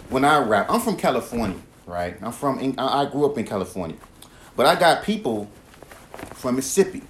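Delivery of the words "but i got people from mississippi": "Mississippi" clipped to "Missippi" with the middle syllable dropped; Southern Mississippi. Shown as a demonstration. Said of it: "See how I said Mississippi?".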